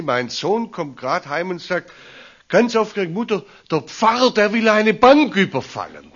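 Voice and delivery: high, loud, breathless report with laughter; excited retelling. Retold or imitated. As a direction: blurt it out like an agitated mother. Excited son reported by mother. (aufgeregt, hoch und laut, mit Lachen)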